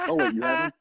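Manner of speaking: surprised. Real, not acted. Discovers pick already taken.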